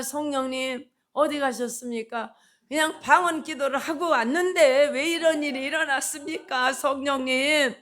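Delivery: indignant plea. Retold or imitated. Preacher acts out complaint to Spirit.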